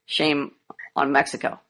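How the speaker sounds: slow, deliberate proverb; slow saying. Retold or imitated. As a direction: spell out each word slowly. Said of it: "there's a saying".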